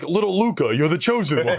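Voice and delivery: anoint him like a movie mentor; mock solemn mentor. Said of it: "he's like".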